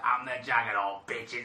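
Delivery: mild Australian Juggernaut boast; a hint of Aussie swagger; Australian again. Showing how the Juggernaut says it, lightly Australian. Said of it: "That was Australian again".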